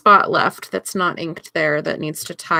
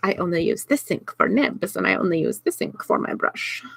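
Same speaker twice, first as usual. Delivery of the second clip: lightly voiced fussy artist; a hint of a precious artiste; 4 dB quieter than usual. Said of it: "That's my fussy artist voice".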